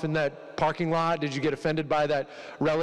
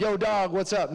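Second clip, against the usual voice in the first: a light casual yo dog greeting, a bit higher; mock street greeting; 5 semitones higher than usual. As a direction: toss off a slangy hello, half joking. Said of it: "it wasn't like".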